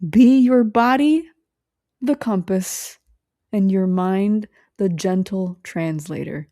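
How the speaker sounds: slow, deliberate oracle-like delivery; slow solemn recitation. Shown as a demonstration. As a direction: intone it like a closing blessing. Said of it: "why I'm doing a circle".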